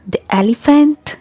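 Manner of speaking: "the elephant" with "the" as short "thee"; the before vowels. Shown as a demonstration. Teacher gives a vowel example, short "thi elephant". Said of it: "when it appears before a vowel sound".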